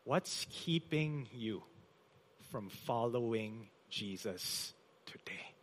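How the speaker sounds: keeping drawn out, following Jesus today almost whispered; an urgent, near-whispered plea to the congregation; slow hushed repeat. Acted. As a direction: repeat it slowly, sinking to a whisper. Preacher repeats the question softer.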